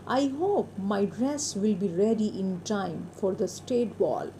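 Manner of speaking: slow, deliberate English reading for learners; story read-aloud. A narrator's reading. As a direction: read it out word by word, very slowly. (धीमे, साफ़ कहानी पाठ)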